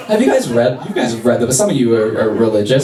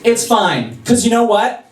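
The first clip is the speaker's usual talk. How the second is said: pitched-up, drawn-out condescending forgiveness; passive-aggressive forgiveness; 3 semitones higher, slower than usual. Retold or imitated. Jesus forgiving the sorry crowd, passive-aggressive and smug. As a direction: forgive them like you're doing a favour. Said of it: "the most passive-aggressive, bitchy thing".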